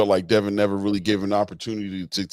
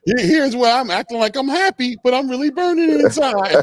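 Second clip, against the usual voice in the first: high, louder mock-happy voice; silly voice impression; 12 semitones higher, 5 dB louder than usual. Host laughing, repeating the guest's bit in a high silly voice. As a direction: echo the silly voice, much higher. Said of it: "he's hilarious".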